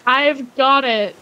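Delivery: put-on Canadian accent. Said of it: "I've got the Canadian accent down".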